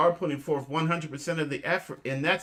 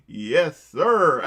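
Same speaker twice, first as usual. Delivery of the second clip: retold yes sir; 3 semitones higher, 9 dB louder than usual. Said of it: "She said".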